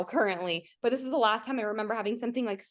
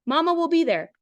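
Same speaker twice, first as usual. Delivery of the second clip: louder, higher, each word landing; awed emphasis; 6 semitones higher, 6 dB louder than usual. Shown as a demonstration. Reading the sign to viewers, higher, louder and awed. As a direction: say it like chills are running down you. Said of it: "Traffic sign".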